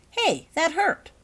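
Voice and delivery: high, loud, drawn-out complaint; surprised protest. A narrator's reading. Holly poked on the arm, surprised protest. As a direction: protest the sting, slow and loud. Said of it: "opening her eyes in surprise".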